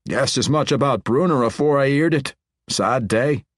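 lightly voiced dwarf, mild sorrow; dwarf, a touch sad. A narrator's reading. Foreman to king about a lost friend, mild sorrow.

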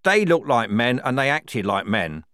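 loud, insistent snarl. A narrator's reading. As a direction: snarl it as an accusation. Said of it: "snarled Strappy".

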